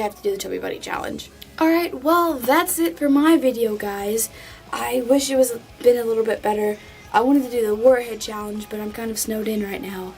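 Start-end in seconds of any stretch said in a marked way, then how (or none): 4.7-10.1 talking through marshmallows; mouth full. Real, not acted. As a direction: speak with your cheeks stuffed. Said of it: "I just spit everywhere".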